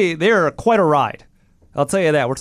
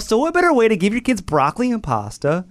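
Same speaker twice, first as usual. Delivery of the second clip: higher, lightly played sales pitch; mock ad executive; 4 semitones higher than usual. Pretend employee selling frozen meals, mock pitchman. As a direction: pitch it like a commercial, half in jest. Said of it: "I'm in their corporate offices".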